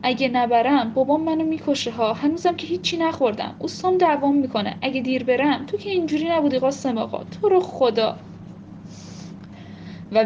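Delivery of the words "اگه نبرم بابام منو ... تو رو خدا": pleading. Acted. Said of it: "التماس کردم".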